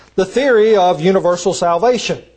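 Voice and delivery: theory pressed, stressed and prominent. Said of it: "I use and emphasize the word theory".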